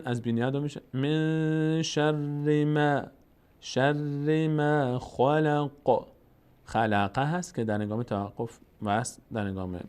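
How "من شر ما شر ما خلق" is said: slow, drawn-out Quran recitation; tajwid recitation. Shown as a demonstration. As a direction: chant it slowly, stretching every vowel. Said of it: "Quran recitation". (تلاوت آرام و کشیده)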